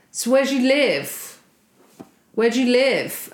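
mock a swaying drunk pestering girls; drunk guy. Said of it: "Very drunk".

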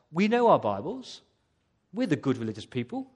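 loud, self-satisfied mock piety; pompous and pious. Preacher mocking the smug religious people, pompous and pious. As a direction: puff up like a smug churchman. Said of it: "the quite sort of pompous, pious".

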